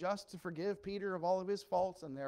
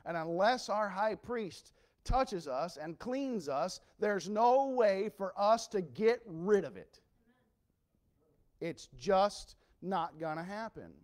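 slow forceful preaching; 5 dB louder, slower than usual. Acted. Preacher pressing his point.

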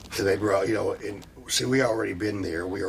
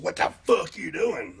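quoting Ole; 8 semitones higher than usual. Retold or imitated. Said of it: "Ole walks up to me and said".

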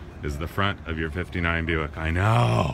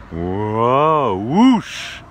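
excited whoa; 2 semitones higher, 7 dB louder than usual. Real, not acted. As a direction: swoop up in delight at the fins. Gushing over the tail fins.

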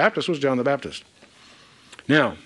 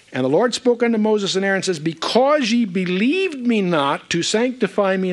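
raised, measured reading of a judgement; solemn scripture reading; 5 semitones higher than usual. Real, not acted. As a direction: pronounce the verse from a higher pitch, slowing down. Reads God's judgement from scripture.

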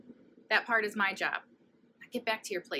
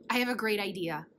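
exclaiming; 5 dB louder than usual. Acted. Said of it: "exclaimed Kansas".

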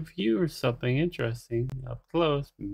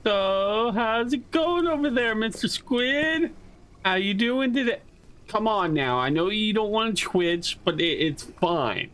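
high, sing-song coaxing; mock coaxing; 5 semitones higher than usual. Streamer sweet-talking Mister Squid, high mock coaxing. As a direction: sweet-talk the monster like a nervous pet owner.

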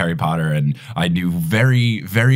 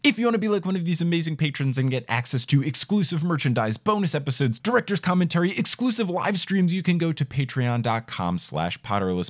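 scripted host plug, softer than chat; measured episode intro read; podcast promo read; 5 semitones higher, 5 dB quieter than usual. Acted. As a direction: read the plug smoothly, lifting each item. Recorded patron plug and episode intro.

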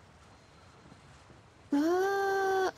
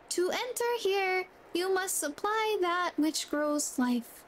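slow reread; 3 semitones higher than usual. Shown as a demonstration. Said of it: "Strange writing says".

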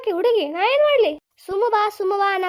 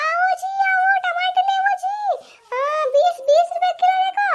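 much higher Hindi hawker call; Hindi-speaking vendor; 10 semitones higher than usual. Acted. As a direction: call customers over like a Hindi street seller. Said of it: "ನನಗರ Hindi ಬರಂಗಿಲ್ಲ".

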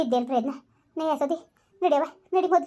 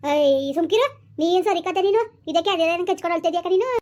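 louder, sharper telling-off to stop crying; scolding hush; 3 semitones higher, 4 dB louder than usual. Acted. Neighbour scolds the crying mother to hush, loud and sharp. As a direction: snap her out of the wailing.

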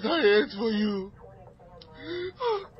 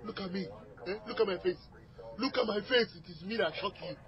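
quiet menace; 2 semitones lower, 11 dB quieter than usual. Acted. Armed husband on the phone, quietly menacing the dispatcher. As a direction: lean in close and threaten softly.

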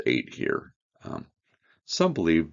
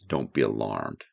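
lower, gentle reassurance to frightened women; reassuring; 7 semitones lower than usual. Acted. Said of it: "fright was calmed by the words of reassurance".

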